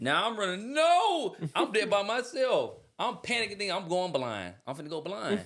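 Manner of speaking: retold panic. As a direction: relive the scare with a laugh in it. Retelling gasoline in his eyes.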